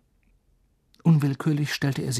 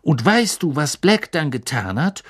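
dramatic teaser; 3 dB louder than usual. Acted. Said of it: "fuhr Stan dramatisch fort".

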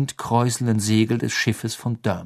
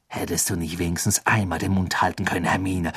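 angry; 5 semitones lower, 4 dB quieter than usual. A narrator's reading. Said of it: "sagte Ron zornig".

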